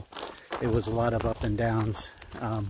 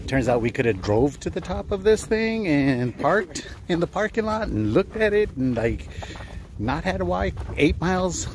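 higher and louder, chuckling through it; laughing disbelief; 8 semitones higher, 5 dB louder than usual. Real, not acted. Hiker laughing to a companion about the long pointless walk, amused. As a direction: laugh at your own wasted effort.

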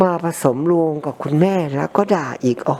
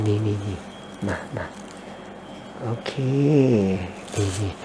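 absorbed murmur; 4 semitones lower, 7 dB quieter than usual. Real, not acted. Concentrating while scraping earwax.

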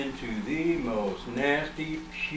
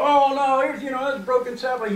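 much higher and louder, imitating panic; freaking out; 11 semitones higher, 6 dB louder than usual. Landowner panicking on seeing the broken sapling, mock alarm. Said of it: "he's freaking out".

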